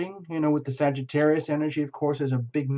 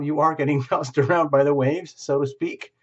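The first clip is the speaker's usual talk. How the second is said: laughing through the words, a bit louder; 3 dB louder than usual. Real, not acted. Tarot reader laughing while telling the viewer. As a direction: chuckle your way through the phrase. Laughs mid-phrase, repeats it.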